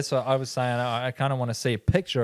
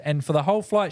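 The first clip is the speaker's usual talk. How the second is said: usual speaking voice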